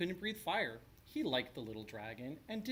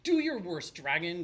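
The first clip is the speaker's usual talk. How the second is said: much higher and louder challenge; loud declaration; 3 semitones higher, 8 dB louder than usual. A narrator's reading. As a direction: boom out the challenge boldly. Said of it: "declared the shiny man".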